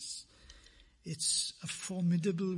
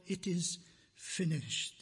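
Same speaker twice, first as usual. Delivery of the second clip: slow, with weight on "finished"; stress on finished. Shown as a demonstration. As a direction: let "finished" carry the emphasis, drawn out. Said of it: "The emphasis on the finished".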